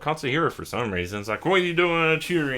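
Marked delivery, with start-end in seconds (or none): 1.4-2.6 mock alarmed yell. Character yelling at Tango.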